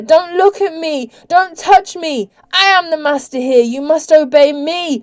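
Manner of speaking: high, loud, frantic commands; shrieking. A narrator's reading. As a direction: shriek orders in panic and rage. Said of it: "shrieked the vampire".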